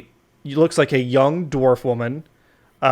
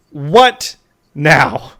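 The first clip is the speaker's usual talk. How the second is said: annoyed; 5 dB louder than usual. Acted. Annoyed lord at door.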